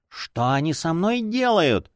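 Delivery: high, slow whimpering complaint; childlike whine. A narrator's reading. Fanatic pierced by cards, whining like a child. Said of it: "захныкал он, как ребёнок".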